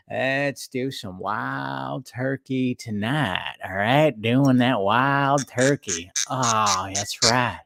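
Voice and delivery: lightly done slow, lazy Texan drawl; slow down and lean back into the words like a laid-back movie star; a hint of a smooth McConaughey voice, slow; McConaughey impression. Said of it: "my best McConaughey impression".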